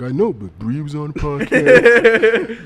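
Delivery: sulky, laughing whine, listing everyone else; butthurt girlfriend voice. Retold or imitated. Girlfriend listing who got on the podcast, laughing sulky whine. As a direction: put on the sulk, half laughing. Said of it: "the voice I'm gonna make is a butthurt voice".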